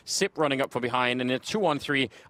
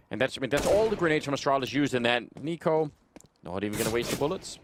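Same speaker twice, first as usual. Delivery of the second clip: esports caster; 2 semitones lower than usual. Acted. Live play-by-play casting.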